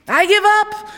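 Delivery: loud, high exasperated shout; king's shout. A narrator's reading. The frustrated king shouts at the calm quilt maker. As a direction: throw up your hands and yell it. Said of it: "the king shouted".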